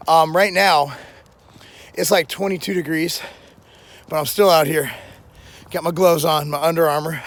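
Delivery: normal talking voice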